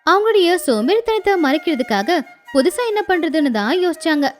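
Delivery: ordinary delivery, nothing marked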